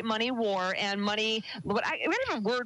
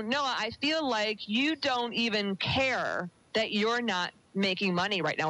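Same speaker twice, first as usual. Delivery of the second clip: slow retold line; slower than usual. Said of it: "which is what I said".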